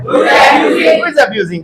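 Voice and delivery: extremely slow, stretched out; teacher modelling the phrase at a crawl; slow model sentence. Shown as a demonstration. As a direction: drag every word for the class. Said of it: "क्या बोलेंगे?".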